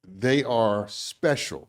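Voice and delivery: slow down and mean it; sincere and tender. Real, not acted. Tender point about his sons.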